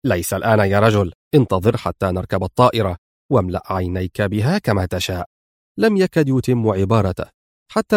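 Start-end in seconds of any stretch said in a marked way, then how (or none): 0.0-5.3 lower, firm and level; mild sternness. Acted. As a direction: hold him back firmly. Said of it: "في صرامة". (صرامة هادئة منخفضة)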